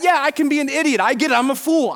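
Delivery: ordinary talk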